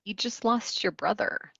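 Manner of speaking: soft, gentle, empathic tone; gentle reflection. Shown as a demonstration. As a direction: say it softly with empathy. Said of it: "so you might just reflect".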